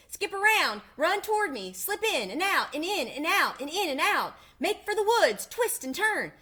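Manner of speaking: very high, loud honking goose cries; shrieking goose. A narrator's reading. Goose urging Wilbur to escape, shrill frantic cries. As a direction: screech the orders like a frantic goose. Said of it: "cried the goose".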